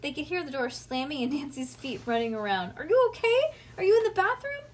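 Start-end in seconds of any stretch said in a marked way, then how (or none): 2.8-4.6 high, loud panicked questions; worried yell, pitched high; freaking out. A narrator's reading. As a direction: call out frantically, searching. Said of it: "hear Nancy freaking out".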